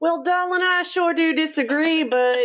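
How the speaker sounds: put-on, high, drawling Southern belle accent.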